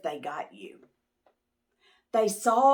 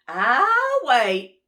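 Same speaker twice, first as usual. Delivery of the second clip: high, louder relieved squeak; porcupine voice; 4 semitones higher, 8 dB louder than usual. Acted. Porcupine relieved to see Moose, high squeak. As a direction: pop out and recognize friends.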